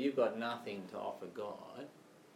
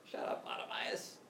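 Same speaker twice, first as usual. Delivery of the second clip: acted irritation, pitch raised toward the end; mock shushing; 7 semitones higher than usual. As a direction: shush a nuisance beggar. Disciples shushing the crying beggar.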